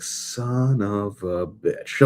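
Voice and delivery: very slow, drawn-out resigned curse; weary curse. Retold or imitated. Doctor learning the ambulances are coming, slow resigned curse. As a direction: drag it out like a tired doctor giving up. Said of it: "is just like".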